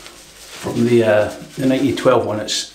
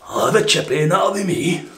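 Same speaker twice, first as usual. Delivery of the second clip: high mock voice; 7 semitones higher than usual. Character answers.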